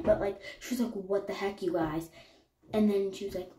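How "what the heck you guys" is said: quieter, whinier take of the line; half-hearted mock whimper, not really crying; softer whiny version. Correcting the retelling of Caitlin, softer mock whine. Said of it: "Well, not crying".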